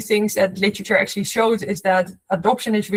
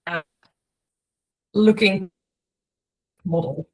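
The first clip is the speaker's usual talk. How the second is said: scrambled voice. Real, not acted. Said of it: "connection is cutting out a bit".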